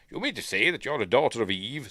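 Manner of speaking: lightly put-on English accent; James McAvoy. Faun questioning a girl, in a mock English accent. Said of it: "putting on an English accent".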